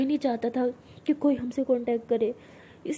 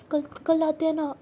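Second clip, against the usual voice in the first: higher, slower, begging; pleading; 4 semitones higher, 5 dB louder, slower than usual. Retold or imitated. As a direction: plead nervously, stretching it out. Begging Jas outside parents' house. (घबराकर, ऊँची, धीमी विनती)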